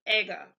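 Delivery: Ega with the E as in egg; German vowel demo. Shown as a demonstration. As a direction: say Ega with a short open E, like egg. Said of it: "almost like the E in egg".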